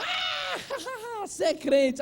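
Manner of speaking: very high imitated cackle into speech; hammed-up high jeering laughter; mocking crowd laugh. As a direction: imitate everyone laughing at him. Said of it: "todo mundo olhou e falou".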